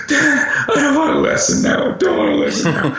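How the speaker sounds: mock tearful little boy; imitated upset child. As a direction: plead like a hyperventilating eight-year-old. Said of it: "like that hyperventilating eight-year-old".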